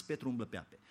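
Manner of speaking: „Petru umblă pe ape” said softly, low; quiet wonder. Shown as a demonstration. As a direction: hush it, almost in awe. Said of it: "Câtă vreme privește la Hristos". („Petru umblă pe ape” spus încet)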